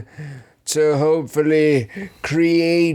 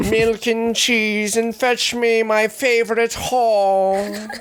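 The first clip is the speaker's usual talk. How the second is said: put-on old-timey voice; 5 semitones higher than usual. Old-timey tavern bit.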